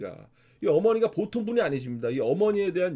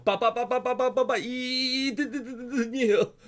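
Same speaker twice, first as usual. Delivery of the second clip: 바- repeated in short bursts, then a very slow 이든이에요; stuttered 바-, 바-; stutter as written in the book; 6 semitones higher, much slower than usual. Retold or imitated. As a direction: read the stammer aloud just as the book spells it. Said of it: "정확하게 이렇게 글씨가 써 있어요".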